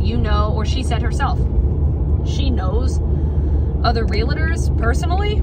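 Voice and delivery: worked-up retold insistence; retold indignant advice. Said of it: "I said".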